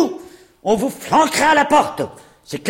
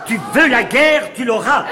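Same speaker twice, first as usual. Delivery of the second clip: louder, shouted threat; furious threat; 4 dB louder than usual. Acted. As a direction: throw the challenge back at her. Landlord furious, declaring war.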